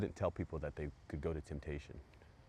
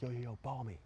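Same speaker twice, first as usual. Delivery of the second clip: eager call; 8 semitones higher than usual. Retold or imitated. First telling of call.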